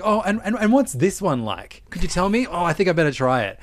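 sweet-voiced customer. Sample-seeking customer voiced.

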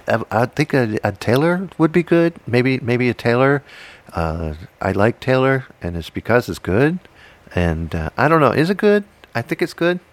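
lightly voiced buddy, unsure and rambling; a hint of a hesitant friend; Ferg impression. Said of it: "Here's my Ferg impersonation".

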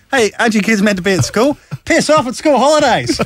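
Sam Neill. Retold or imitated. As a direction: shoo the kids like a cranky adult. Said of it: "Sam Neill goes".

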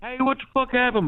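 fake cowboy accent. Prank caller playing hillbilly character.

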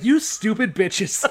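slow, drawn-out insult; hammed-up exasperated father; mock berating. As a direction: stretch out the scolding for laughs. Jethro berates daughters, acted.

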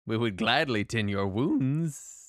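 lightly voiced kindly temple keeper; gentle temple gatekeeper. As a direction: welcome the wounded traveler gently.

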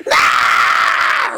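loud, deep mock infant wail; baby's wail. Preacher imitating a hungry baby's cry, loud mock wail. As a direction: bellow it like a starving baby. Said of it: "what does it do?".

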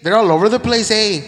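joking Canadian impression with an eh on every line; a hammed-up Canadian accent; mock Canadian accent. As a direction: play the Canadian prime minister for laughs. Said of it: "How'd the prime minister say it?".

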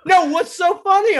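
high, sharp mock teacher demand; angry teacher. Teacher pressing the giggling students, high and sharp. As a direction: snap it like a suspicious teacher. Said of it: "he's like".

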